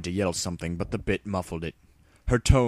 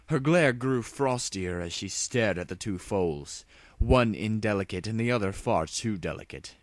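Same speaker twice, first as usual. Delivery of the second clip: mildly seething narration; 6 semitones higher, 5 dB louder than usual. A narrator's reading. Luna seething inwardly.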